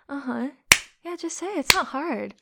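ordinary talk, nothing marked

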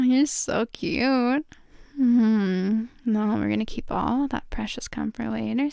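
ordinary talk

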